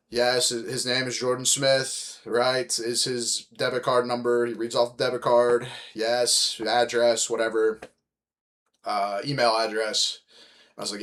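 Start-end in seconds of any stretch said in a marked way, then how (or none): 0.1-4.5 slow, bored rote reply; bored third party. Retold or imitated. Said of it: "this dude sounds, like, fucking bored". 5.9-10.2 bored, going through the routine; bored third party. Retold or imitated. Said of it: "this dude sounds, like, fucking bored".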